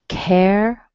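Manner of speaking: Care held alone as a full strong vowel; isolated syllable. Shown as a demonstration. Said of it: "you can hear the first vowel".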